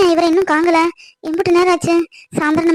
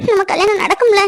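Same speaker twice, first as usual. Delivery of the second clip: crying. Acted. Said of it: "அழாத மொத".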